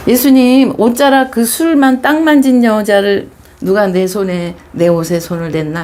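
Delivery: mildly projected story quote, starting high and strong; acted calling out. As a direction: call out a demanding question in a retold scene. Acted question from bleeding woman story.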